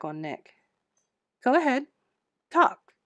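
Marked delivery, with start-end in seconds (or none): 1.4-2.9 playful taunting dare, pitched higher and louder; teasing. Acted. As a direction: goad her like a cheeky ghost. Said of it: "he teased".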